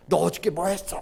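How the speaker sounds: mild mock interrogation; mock scolding. Preacher imitating an angry God questioning a person, mildly scolding. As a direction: press them with a half-hearted scolding. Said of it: "막 이렇게 다그치고 혼내면".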